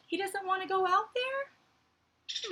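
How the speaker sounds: soft, high, slow whisper. Real, not acted. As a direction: hush it like a secret about a timid squirrel. Teacher whispers about scared squirrel.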